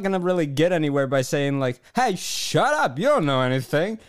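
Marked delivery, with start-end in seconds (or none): 1.9-4.0 high, mocking rant at a sports rival; hammed-up indignant comeback; a pretend argument with a fan who disagrees, mocking and high; mock angry rant.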